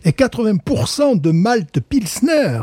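a hint of a Marseille drawl, sung high; Marseille accent. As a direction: lightly ham up a Marseille accent. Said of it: "je fais mon Marseillais".

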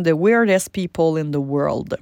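book title said with a deliberate English accent. Shown as a demonstration. Coach announcing a book title in a playful English accent. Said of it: "attachez votre tuque avec mon accent anglophone".

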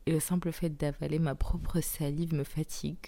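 speaking through a sore throat; strained voice from tonsillitis. Real, not acted. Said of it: "j'ai très très mal à la gorge".

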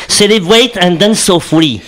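"Celebrate and Dance So Free" read slowly in French-accented English; English lyric. Shown as a demonstration. Host reading the lyric before the clip, slow accented English.

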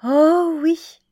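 put-on a bright, high girlish cry of yes; eager young girl. A narrator's reading. The shopgirl accepting the walk, eager and high. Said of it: "Elle répondit".

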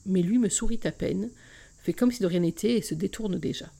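expressive reading of a romance novel, first person; story narration. A narrator's reading. Podcast host reading a novel chapter aloud, expressive narration. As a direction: read the excerpt to podcast listeners, voicing each character.

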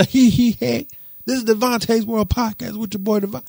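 high, bright mock host intro; podcast host intro. Host starting his Monday episode, hyped announcer read. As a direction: sell the show opener like an announcer. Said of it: "And I'm just".

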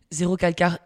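name said the Italian way, Italian accent. Shown as a demonstration. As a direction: pronounce Zéro Calcar with a light Italian accent. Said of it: "notez mon accent".

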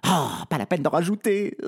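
a spoilt princess losing her temper; flaring up. Acted. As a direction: bite back impatiently at the servant. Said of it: "s'emporte la princesse".

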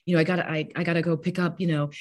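high, quick excited chatter; chatty parents. Retold or imitated. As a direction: gush like a parent at the school gate. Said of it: "they're like".

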